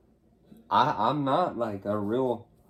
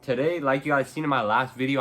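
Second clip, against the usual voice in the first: slight lisp from a retainer; talking around new retainers; wearing a retainer; 2 semitones higher, 4 dB louder than usual. Real, not acted. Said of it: "I got my retainers in".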